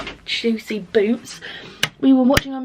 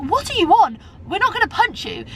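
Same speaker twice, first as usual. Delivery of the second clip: mock exasperated man; 9 semitones higher than usual. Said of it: "He was like".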